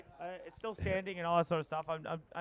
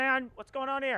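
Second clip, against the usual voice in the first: surprised; 9 semitones higher, 5 dB louder than usual. Real, not acted. Commentator spots a close call.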